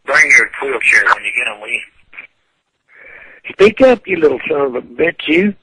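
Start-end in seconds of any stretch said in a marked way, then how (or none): 3.5-5.6 angry yell. Real, not acted. Furious old man yelling at a prank caller down the phone.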